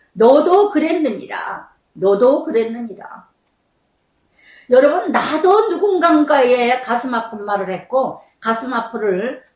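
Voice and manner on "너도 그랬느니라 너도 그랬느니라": slow, solemn divine rebuke; voice of God. Retold or imitated. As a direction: intone it slowly like God speaking. God's voice quoted again.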